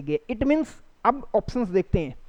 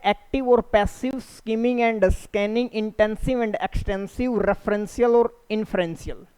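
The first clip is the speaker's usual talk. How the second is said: slow reading; much slower than usual. Shown as a demonstration. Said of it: "teacher reads options slowly".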